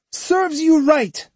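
high, slow spiteful jeer; spat out. A narrator's reading. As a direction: spit the words at him. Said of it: "he spat out".

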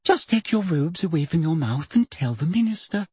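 mildly impatient urging; a touch of impatience under sweetness. A narrator's reading. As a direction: hurry her to speak up. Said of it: "said Umbridge impatiently".

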